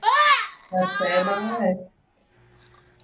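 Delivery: dying creature. Acted. Dying creature's last cry.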